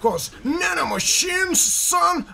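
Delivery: high, loud, slow meme quote; meme villain voice. Acted. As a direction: deliver it like a hammy villain. Quoting a meme line.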